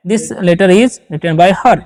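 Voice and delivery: each word spaced out slowly for students; slow dictation. Shown as a demonstration. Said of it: "इस प्रकार से भी sentence बना सकते हैं". (धीमे-धीमे बोलकर लिखवाना)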